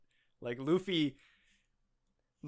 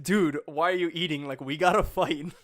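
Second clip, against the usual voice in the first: impatient; 2 semitones higher, 7 dB louder than usual. Retold or imitated. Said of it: "Luffy was just like".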